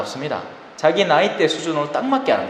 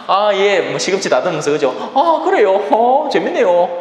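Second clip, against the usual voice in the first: higher, mock-polite, half-listening; feigned interest; 4 semitones higher, 3 dB louder than usual. Vegetable seller humouring a pushy believer, fake-polite. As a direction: humour him while trimming spinach.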